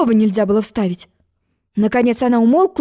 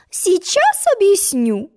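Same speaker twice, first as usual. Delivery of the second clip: reassuring; 10 semitones higher, much slower than usual. A narrator's reading. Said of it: "успокоила её королева".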